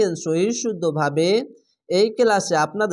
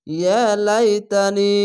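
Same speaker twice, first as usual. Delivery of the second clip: Quran recitation; 3 dB louder, much slower than usual. Shown as a demonstration. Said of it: "এক আলিফ টেনে পড়বেন".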